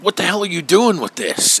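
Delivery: a touch of acted outrage; mock indignant demand. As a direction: imitate a captain demanding an explanation. Acts out captain finding the gun.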